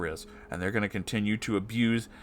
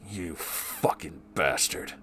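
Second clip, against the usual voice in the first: bitter seething curse; 4 semitones lower, 5 dB quieter, much slower than usual. Real, not acted. Bitter curse after outburst.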